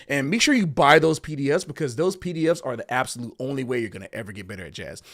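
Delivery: lightly hammed-up jazz tutorial host pitch; mock a salesy YouTube teacher selling PDFs; parody YouTuber voice. Jazz musician mocking typical YouTube teachers, hammed-up host voice. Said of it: "I don't talk like that".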